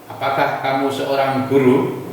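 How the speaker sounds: "guru" kept short, tune lifted at the end; English-style intonation. Shown as a demonstration. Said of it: "Jadi intonasinya beda".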